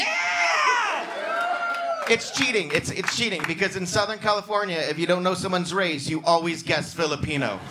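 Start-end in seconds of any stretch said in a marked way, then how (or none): 0.1-2.1 shouted yeah. Real, not acted. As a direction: yell it out from the seats. Audience member shouts back.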